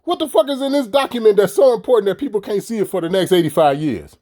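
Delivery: a judge dismissing it with disbelief; mock judge. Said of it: "The judge was like".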